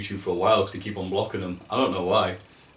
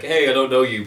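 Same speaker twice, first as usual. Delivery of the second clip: louder, higher put-on friendly voice; generic niceness; 4 semitones higher, 7 dB louder than usual. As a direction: imitate polite friendliness to a stranger. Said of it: "But, like, generic".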